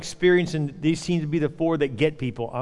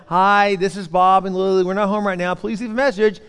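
answering machine greeting. Retold or imitated. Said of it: "record your little message like".

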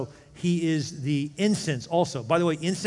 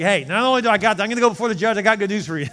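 Jesus as advocate; 6 semitones higher, 9 dB louder, much faster than usual. Pretend.

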